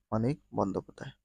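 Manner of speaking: fast rattled-off repeat; quick repeat. Shown as a demonstration. Quiz reader quickly repeating the answer. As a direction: rush through the answer a second time. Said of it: "answer repeated quickly".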